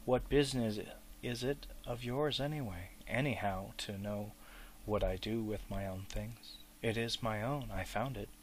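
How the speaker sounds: hard, possessive anger; angry. Acted. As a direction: defend what's his. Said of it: "angry light in his eyes".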